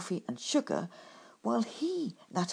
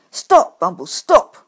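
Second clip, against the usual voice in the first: shouting after him; 2 semitones higher, 16 dB louder, slower than usual. Acted. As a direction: call him back at full voice. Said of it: "I cried".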